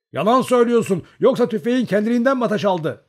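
high, heated challenge; loud accusation. A narrator's reading. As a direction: accuse them at the top of the voice. Comrade accuses shooter of lying.

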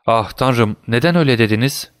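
understated exclamation, quickening into the question; mild alarmed cry. Acted. Dantes to the unseen prisoner, restrained alarmed cry. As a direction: cry out without raising the volume. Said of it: "diye haykırdı Dantes".

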